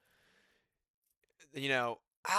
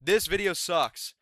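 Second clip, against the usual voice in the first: louder and slower, each word leaned on; louder emphatic; 2 semitones higher, 6 dB louder, slower than usual. Shown as a demonstration. Griping about his video, louder and slow. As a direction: slam it down slowly. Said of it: "repeats the complaint".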